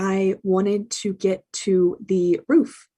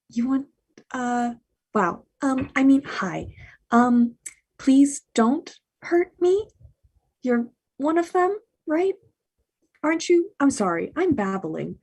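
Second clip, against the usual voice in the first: nervous put-on American accent, pitch creeping higher; 4 semitones higher than usual. Hans poses as a hostage to McClane, babbling in a fake American accent. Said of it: "Hans is using an American accent".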